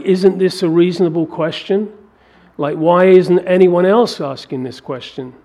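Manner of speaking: a touch of fired-up David pleading with Eliab. Acted. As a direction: appeal to your brother with fire. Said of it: "David gets quite fired up about it".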